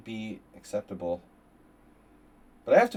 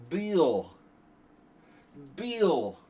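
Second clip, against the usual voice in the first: calling out much higher and louder, slowly; hammed-up sing-song hello to Bill; exaggerated high cheery call; mock high greeting; 8 semitones higher, 8 dB louder, much slower than usual.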